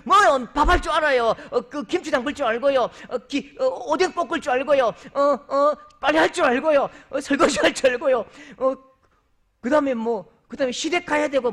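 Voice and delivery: high, loud chirpy listing; eager bride listing chores. Retold or imitated. A bride-to-be lists her housework, high and loud. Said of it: "그 자매가".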